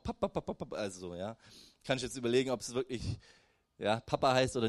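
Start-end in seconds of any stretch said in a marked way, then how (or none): 0.0-0.8 put-on baby babbling. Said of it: "oder manchmal auch".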